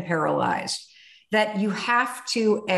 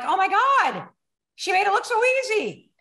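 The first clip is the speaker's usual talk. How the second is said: higher, fast awestruck gasp; awed; 11 semitones higher than usual. Retold or imitated. Watching Lisa jump, a high awed gasp. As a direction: marvel at how easy she made it.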